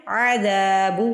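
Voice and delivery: عذاب with a clear throaty ع; clear ain. Shown as a demonstration. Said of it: "آئین کی آواز نکالنی ہے". (عذاب میں عین کی آواز)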